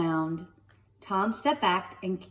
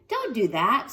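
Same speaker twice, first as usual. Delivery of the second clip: snapped; 2 semitones higher, 4 dB louder than usual. Acted. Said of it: "snapped Stella".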